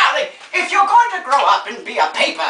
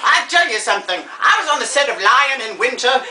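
grande dame grumbling; theatrical old star; 3 semitones lower than usual. Acted. Old star comparing the wait to a film shoot, grandly peeved. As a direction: complain with weary show-business grandeur.

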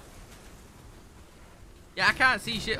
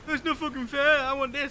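higher-pitched mock outrage; mad gamer; 5 semitones higher than usual. Retelling an opponent's tantrum over free guns, mock angry. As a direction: imitate an angry player's complaint. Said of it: "they just got so mad".

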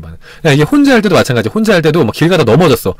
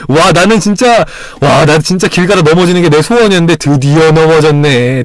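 over-the-top joy. Pretend. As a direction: celebrate a fall like a dream come true. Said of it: "이런 식으로 생각하는 거죠".

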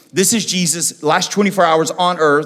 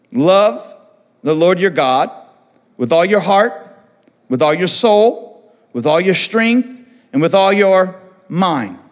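slow, weighty words with each phrase set apart; slow solemn proclamation; solemn emphatic recital; slower than usual. Acted. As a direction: proclaim it slowly and firmly. Quoting the great commandment, emphatic.

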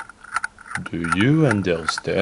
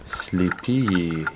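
hypnotist; 2 semitones lower than usual. Acted. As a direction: draw the words out to put him under. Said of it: "need to hypnotize him".

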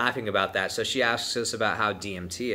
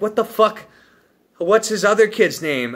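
high, loud incredulous shout; stunned by the kids' names, shouting; shocked disbelief; 11 semitones higher, 8 dB louder than usual. Retold or imitated. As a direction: blurt it out in disbelief. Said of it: "I'm like".

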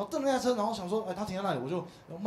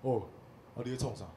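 mother-in-law; 7 semitones lower, 7 dB quieter than usual. Retold or imitated. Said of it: "然后她问我说".

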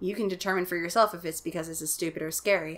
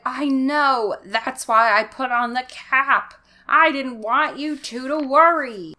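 dad voice; 5 semitones higher, 7 dB louder, slower than usual. Acted. Dr. Brewer voiced, raised pitch.

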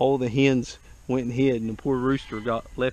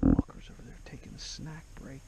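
whispering. Real, not acted. Sneaking up, whispering to crew.

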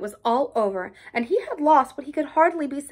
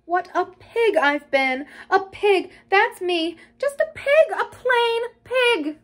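gloomy self-reproach; 6 semitones higher than usual. A narrator's reading. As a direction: berate yourself, rising to a drawn-out last phrase. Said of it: "After a time he muttered gloomily".

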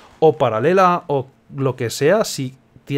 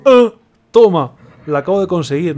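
dim hero voice; 3 semitones higher, 7 dB louder than usual. Retold or imitated. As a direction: hand it over like a naive fool. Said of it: "y dice".

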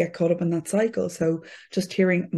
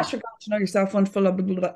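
Irish pitter patter; much faster than usual. Retold or imitated. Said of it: "this Irish kind of pitter patter".

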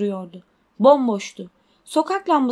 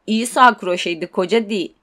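a lightly voiced teenage thug, teasing; gang boy voice; 3 semitones lower than usual. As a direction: play a cocky lad ribbing his mate. Gang boy mocking Dudley. (hafifçe canlandırılmış alaycı çete çocuğu)

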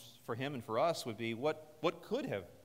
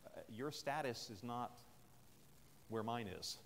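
condescending; 3 semitones lower than usual. Retold or imitated. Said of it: "He could have said".

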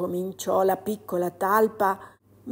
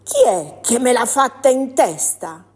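a louder, indignant little mole; 4 semitones higher, 5 dB louder than usual. Acted. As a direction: call out for the culprit. Mole demands who did it.

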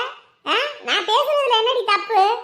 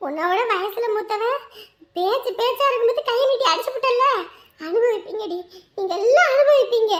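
high-pitched, wounded outrage; outraged cursing; 4 semitones higher than usual. Acted. Slapped elder cursing her attacker's family, outraged. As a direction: hurl it as a curse on the family.

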